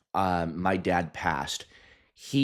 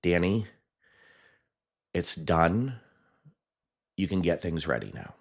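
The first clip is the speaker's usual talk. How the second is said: calm retold words. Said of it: "he said these specific words".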